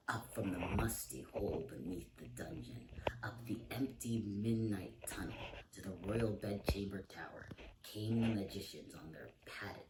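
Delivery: spooky hushed storytelling whisper; eerie whispered bedtime-story narration. A narrator's reading. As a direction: whisper it like a creepy secret.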